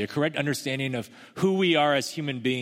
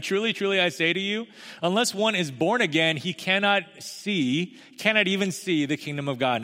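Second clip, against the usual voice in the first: solemn Jesus voice; 7 semitones higher than usual. Acted. Quoting Jesus' solemn words.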